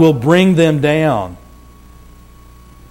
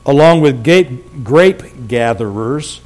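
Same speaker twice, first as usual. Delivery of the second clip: slow, careful correction from "gape" to "grape gatherers"; tongue-twister stumble; 3 semitones lower, slower than usual. Real, not acted. Preacher tripping over a tongue twister, slowly correcting "gape" to "grape gatherers". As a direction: trip on "gape", then space out "grape gatherers". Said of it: "that's a tongue twister".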